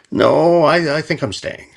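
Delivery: high, bright-eyed insistence on staying; sheepish high reply. Retold or imitated. Telling team he stays behind.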